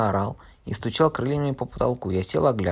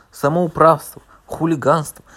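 much louder, higher outraged shout; outraged yelling; 6 semitones higher, 8 dB louder than usual. Acted. Fat man making a scandalous scene, outraged yelling. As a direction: explode in a scandalous outburst. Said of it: "устроил безобразную сцену".

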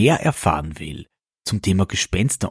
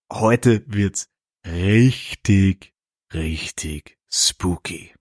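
spooky; much slower than usual. Acted. Host teasing a ghost episode.

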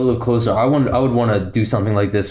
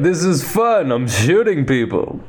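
higher, gleeful mock boast; Lando; 3 semitones higher than usual. Lando treating the battle like a party, mock glee. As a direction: play it as a clueless reveller having a blast. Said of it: "and he's like".

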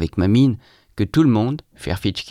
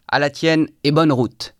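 higher-pitched, spirited toast; cried toast; 6 semitones higher, 3 dB louder than usual. A narrator's reading. Drinker toasting Tverkov's departure, crying out. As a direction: call out a farewell toast, voice lifted. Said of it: "cria-t-il à Tverkov".

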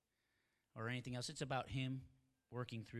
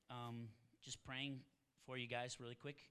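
quiet; 10 dB quieter than usual. Real, not acted.

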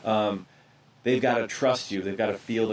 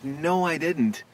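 sincere reply; 2 semitones higher, much slower than usual. Retold or imitated. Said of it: "It's like".

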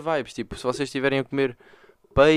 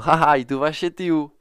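brother laughing; 3 semitones higher, 6 dB louder, slower than usual. Retold or imitated. Brother laughing reveals news.

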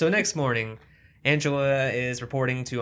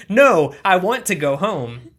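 imitating the girl; 7 semitones higher, 10 dB louder than usual. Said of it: "And she's like".

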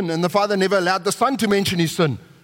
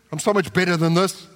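smug superiority; 2 semitones lower than usual. Retold or imitated. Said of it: "It's a Pharisaical attitude".

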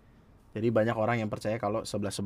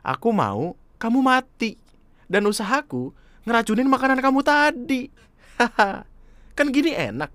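creepy villain; 11 semitones higher, 4 dB louder than usual. Acted. Killer reveals poisoning.

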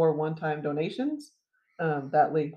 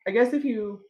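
choking on spit; 5 semitones higher, 4 dB louder than usual. Real, not acted. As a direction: voice catching on spit. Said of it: "choking on my spit".

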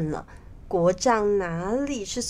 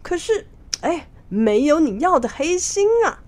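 smiling, teasing; 4 semitones higher, 4 dB louder than usual. Acted. Fake monk showing the minister all his hearts, teasing. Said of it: "他笑着说".

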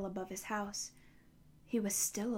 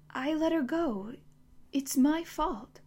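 anguished; 6 semitones higher, 3 dB louder, slower than usual. A narrator's reading. Connor's anguished repetition.

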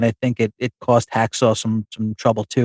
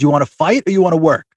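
higher-pitched retold challenge, only half yelled; mild mock yell; 5 semitones higher than usual. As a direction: imitate a wrestler's yell without really shouting. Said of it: "fucking Bourne yells at him".

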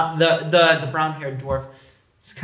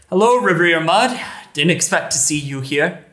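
loud greeting; 3 semitones higher, 5 dB louder than usual. Acted. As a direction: call out to announce yourself. Frederick greets loudly.

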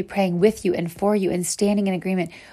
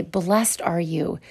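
slow blessing; much slower than usual. Retold or imitated. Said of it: "come alongside of you and say".

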